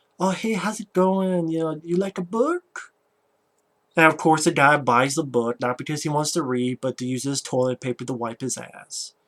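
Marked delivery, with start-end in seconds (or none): 0.2-2.9 on-the-nose, very flamboyant, fey voice. Acting out a man's greeting in a story, imitating a flamboyant man. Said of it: "very flamboyant".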